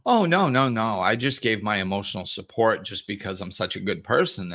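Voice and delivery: playing the self-righteous client insisting on her goodness; mock-offended denial that settles down; defensive client. Client defending herself in acted exchange.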